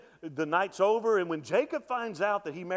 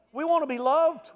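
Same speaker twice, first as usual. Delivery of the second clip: the same line again, louder, stress on want; the want to be loved line, louder; louder preached repeat; 11 semitones higher, 7 dB louder than usual. Acted. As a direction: hammer the repeat home. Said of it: "repeated, louder".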